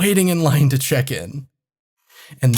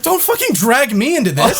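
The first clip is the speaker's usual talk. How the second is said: laughing; 9 semitones higher than usual. Retold or imitated. Retold exasperated reply, laughing.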